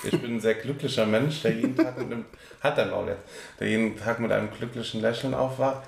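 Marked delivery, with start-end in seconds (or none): 1.4-3.2 stifled giggles. Real, not acted. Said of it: "Hör auf zu lachen".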